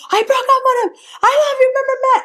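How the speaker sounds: very high, loud emotional declaration; imitating her tearful declaration at his door; breathless confession. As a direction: pour it out in a rush. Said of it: "I was like".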